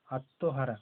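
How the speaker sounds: আত্মহারা as "atto-hara"; stressed ত, silent ম. Shown as a demonstration. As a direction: press the ত in আত্মহারা, leaving ম silent. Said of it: "তটা জোর দিয়ে বলা হবে".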